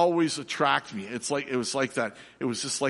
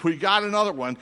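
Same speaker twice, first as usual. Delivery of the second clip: barker call; 6 semitones higher, 4 dB louder than usual. Retold or imitated. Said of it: "and the guy says".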